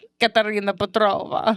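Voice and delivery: put-on Russian, Eastern European accent. Saying a character's full name aloud, in a Russian accent. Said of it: "Was it Russian or is it like East?".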